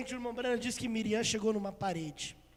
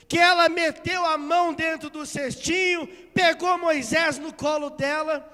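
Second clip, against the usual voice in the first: loud, rising preacher's narration; impassioned preaching; 4 semitones higher, 8 dB louder than usual. Acted. Preacher telling how princess fell for baby Moses, impassioned preaching. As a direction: build with forceful, raised-pitch phrases.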